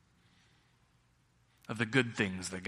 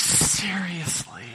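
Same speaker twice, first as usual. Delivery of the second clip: slow, laughing disbelief; incredulous laugh; 7 semitones higher, 6 dB louder, much slower than usual. Retold or imitated. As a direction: drag it out, half laughing. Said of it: "I'm like".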